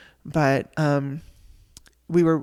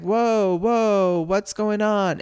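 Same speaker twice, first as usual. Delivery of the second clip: drawn-out, dazed, higher voice of someone high on meds; imitating a drugged-up husband, a bit higher and slow; slow stoned voice; 5 semitones higher, 3 dB louder, much slower than usual. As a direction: play the husband groggy and out of it. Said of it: "he's talking so slow 'cause he's so high".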